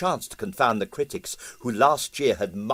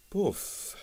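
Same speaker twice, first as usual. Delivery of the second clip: quiet agreeing poof; 8 semitones higher, 8 dB quieter than usual. A narrator's reading. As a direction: echo it dryly. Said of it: "agreed Quill".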